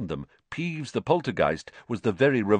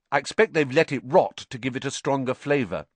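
brisk know-it-all explanation; quick and sure, as if you know all about it; matter-of-fact expert, speaking fast; knowledgeable; 4 semitones higher, faster than usual. Acted. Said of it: "said Hermione knowledgeably".

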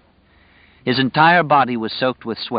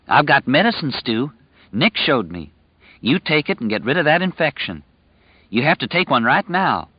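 lightly raised, earnest simple man; simple earnest young man; 5 semitones higher than usual. Acted. Tom urging Stu to take pills.

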